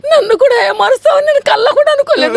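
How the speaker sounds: sobbing outcry; crying shout. Acted. Betrayed wife crying out for someone to turn to. Wife wailing at husband in uniform.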